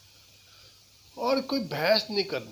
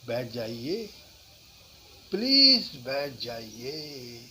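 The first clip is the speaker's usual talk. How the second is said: slow, lower, polite please; courteous; 3 semitones lower, 5 dB louder, slower than usual. Shown as a demonstration. Teacher demoing a slow courteous invitation to sit. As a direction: draw it out respectfully. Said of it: "इसके कहने के कई तरीके हैं".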